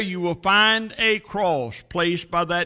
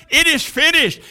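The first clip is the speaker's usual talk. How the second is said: high, raised preaching cry; 6 semitones higher, 3 dB louder than usual. Acted. Stars cry to angels in heaven, crying out. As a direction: call it up to the heavens. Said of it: "cried to the angels in heaven".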